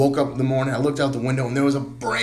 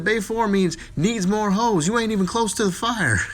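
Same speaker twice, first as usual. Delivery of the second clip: mock wife voice; 10 semitones higher, 5 dB louder than usual. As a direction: deliver it as a sly taunt. Wife's punchline voiced high.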